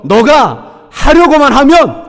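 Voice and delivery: encouraging voice of God. Shown as a demonstration. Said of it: "한 번 더요".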